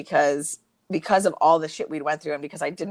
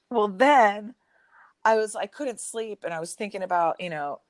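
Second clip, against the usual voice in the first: mock manipulative whine; 3 semitones higher than usual. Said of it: "playing to my emotions".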